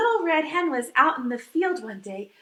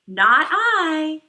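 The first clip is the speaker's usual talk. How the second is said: a loud, blunt "no" from the duck; loud refusal; 8 dB louder than usual. Acted. Duck refusing to help the little red hen, loud blunt refusal. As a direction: bark it out, flat refusal.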